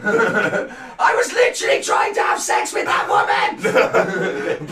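shouted through laughter, slow and high; laughing mock protest. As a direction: plead breathlessly while cracking up.

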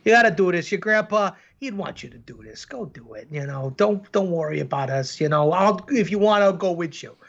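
a light, jokey New York Long Island uncle voice; imitating a Long Island accent. Nephew imitating his Long Island uncle, a light New York accent. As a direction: lean into the Long Island vowels a little, urging gently. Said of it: "so he talks like this".

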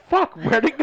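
high mock-baffled outburst; retold surprise at losing the accent; sudden dismay. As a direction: blurt it in comic bewilderment. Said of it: "I'm just talking like me".

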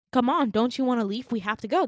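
loud, insistent push to leave; urgent urging. Retold or imitated. Jessica on the ledge urging escape, insistent. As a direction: press them hard to go.

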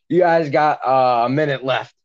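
lightly voiced counselor announcing time; counselor calling out. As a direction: call out to swimmers in the water. Counselor calls the time left.

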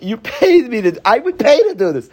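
acted giddy amazement. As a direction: imitate a player thrilled by his paycheck. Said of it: "he's, like, giddy".

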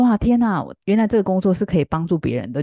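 high, bright-eyed realisation; delighted wow. Retold or imitated. Rental girlfriend realising her job helps, delighted. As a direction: gasp with joy at the discovery. Girl's happy inner thought.

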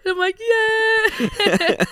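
high, loud, laughing words; can barely get words out for laughing; laughing through it. Real, not acted. Laughing while retelling the proposal moment.

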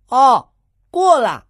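slow, cool "哦，过了" as if passing is nothing; imitating a cool top student, slow and even; calm and unbothered. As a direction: shrug it off like the class top student. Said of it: "就会很淡定地说".

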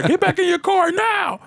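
high, forceful command; urgent police order. Retold or imitated. Cop with gun orders driver back, high urgent command.

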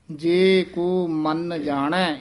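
slow ਜੇ ਕੋ ਮਨ ਜਾਣੈ, then a pause; ਜਾਣੈ ਤੋਂ ਬਾਅਦ ਵਿਸਰਾਮ; pause after phrase. Shown as a demonstration. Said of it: "ਇੱਥੇ ਵਿਸਰਾਮ".

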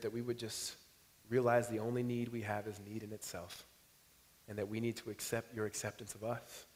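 earnest spoken prayer, measured. Acted. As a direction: pray it to God for the church. Leads the closing prayer.

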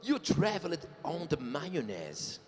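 slow, deliberate word-by-word English; slow literal English. Shown as a demonstration. Host reads a made-up English phrase slowly to a singer. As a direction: spell out each word slowly. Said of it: "traduza pra mim".

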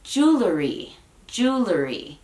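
"Jewelry" said carefully in three syllables; careful pronunciation. Shown as a demonstration. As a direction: draw out "Jewelry" as JOO-luh-ree, each syllable distinct. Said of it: "si le preguntas a alguien detenidamente".

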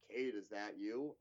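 a hint of Conroy's Batman, drawn out. Bruce greets Kate in the hall, slow mock Batman. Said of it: "the very familiar Batman voice go".

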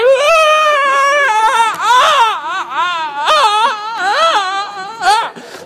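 loud, high hammed-up wailing; exaggerated high-pitched bawling, wail after wail; mock baby crying. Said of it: "starts crying like a baby".

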